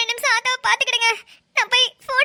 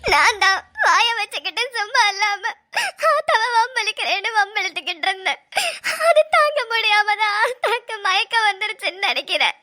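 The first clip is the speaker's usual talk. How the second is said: crying. Acted. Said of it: "நீ அழுவுறது கஷ்டமா தான் இருக்குது".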